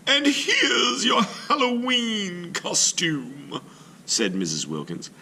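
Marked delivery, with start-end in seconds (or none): 0.1-3.6 put-on sweet old lady. Missus Wilkins offers Mister Klug a treat, high and sing-song. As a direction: present it like a delighted granny.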